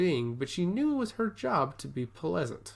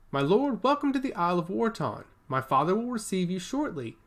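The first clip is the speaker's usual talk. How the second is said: gleeful announcement; 5 semitones higher than usual. Acted. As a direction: greet the lord with delighted enthusiasm. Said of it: "she announced gleefully".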